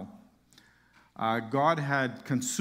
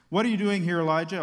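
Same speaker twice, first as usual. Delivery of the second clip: commanding call; 2 semitones higher, 4 dB louder, faster than usual. Acted. God questions Elijah, booming.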